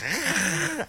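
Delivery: high-pitched car-in-winter noise; imitated car noise. Host mimicking dad's old car in winter, imitated engine noise. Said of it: "I can hear that car in winter. Sounds like".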